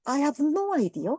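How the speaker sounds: slow, drawn-out British accent imitating the flustered waiter; slow hammed-up British English; British waiter who can't follow, slow British accent; mock British accent. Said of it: "막 이래".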